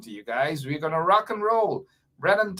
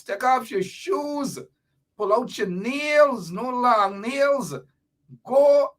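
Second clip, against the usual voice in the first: excited hype; 6 semitones higher than usual. Real, not acted. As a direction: hype up the guest in high, stretched phrases. Building up the guest's entrance.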